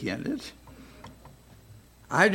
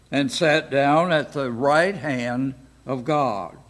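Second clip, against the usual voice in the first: scripture reading. Acted. Teacher reads Mark sixteen to the class, reading voice. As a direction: read the verses out steadily to the class.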